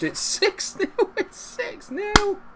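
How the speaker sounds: very high, laughing shriek; laughing cheer. Real, not acted. Celebrating the sixth goal, laughing high. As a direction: squeal it through laughter.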